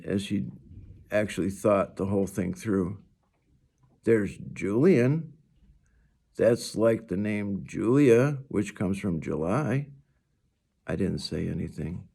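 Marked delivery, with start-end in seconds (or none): 4.0-9.9 a hint of a bright young girl; lightly voiced cheerful girl. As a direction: play the friendly girl lightly. Narrator voices Summer.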